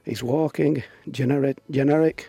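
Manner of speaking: reading through fits of laughter; cracking up mid-quote; laughing. Real, not acted. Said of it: "Are you crying, Steve?".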